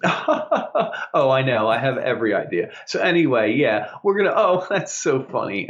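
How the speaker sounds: lightly voiced sweet phone manner; fake-friendly coworker on a call, lightly; a hint of sugary phone voice; mock phone politeness. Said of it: "and she goes".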